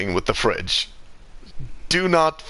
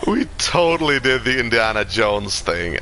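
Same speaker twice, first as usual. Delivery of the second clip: dawning joy; 4 semitones higher than usual. Real, not acted. The fridge stunt just worked.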